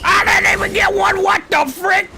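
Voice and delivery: high yelled hillbilly; hick voice. Pretend. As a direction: yell it like a hick. Hick voice shouting.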